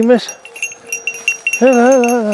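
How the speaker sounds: loud, urgent call to the dog. Real, not acted. Calling the dog back in.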